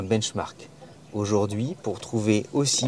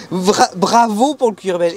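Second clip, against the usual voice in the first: excited; 8 semitones higher, 6 dB louder, slower than usual. Pretend. Mock cheer over the beige leather.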